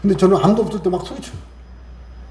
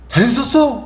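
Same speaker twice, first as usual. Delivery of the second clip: higher, louder bright hello; cheerful greeting; 7 semitones higher, 5 dB louder than usual. Retold or imitated. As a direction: greet them like an old friend, beaming. Cheerful greeting to old enemy. (반갑게 들뜬 인사)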